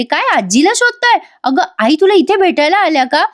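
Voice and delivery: high, surprised question; sudden alarm at the news; startled mother. Retold or imitated. Janaki hearing about grandma, high startled questions. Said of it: "Janaki म्हणते".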